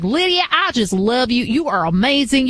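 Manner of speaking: put-on thick Southern accent. A fan from the South telling the host they love her, thick Southern accent. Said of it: "with the really thick Southern accent".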